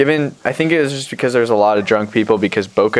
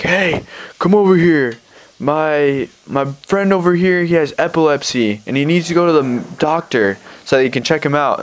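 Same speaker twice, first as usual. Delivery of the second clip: imitated drunk stranger; 5 semitones higher than usual. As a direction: mimic a drunk calling for help. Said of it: "This other group of drunk people".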